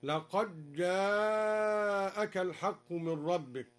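لقد جاءك with the d assimilated, laqaj-ja'aka; dal merged into jim. Shown as a demonstration. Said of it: "وأدغم الدال في الجيم".

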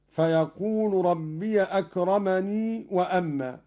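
ربي as "rabbiya", أكرمني ending in long "nee"; joined reading. Shown as a demonstration. Teacher showing the joined reading, أكرمني with long final ee. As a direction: sound the ya in أكرمني, running into وأما. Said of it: "وإذا وصل يقول".

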